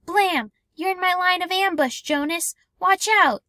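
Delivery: high, loud playful warning; excited game shout. Acted. Asher shouting in war game.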